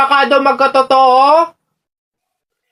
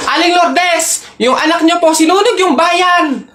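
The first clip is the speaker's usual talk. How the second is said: alarmed calling out; 4 semitones higher than usual. Acted. Neighbour calls out alarm.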